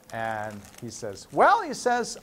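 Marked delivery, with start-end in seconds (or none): 1.3-1.6 high, drawn-out musing "well"; pondering. Acted. Man weighing the genie's offer, pondering. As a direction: mull it over in a raised voice. Joke character ponders first wish.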